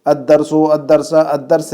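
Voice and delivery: الدرس said slowly and clearly, three times; slow classroom demo of الدرس; model pronunciation. Shown as a demonstration. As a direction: enunciate الدرس carefully for the class. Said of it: "جیسے".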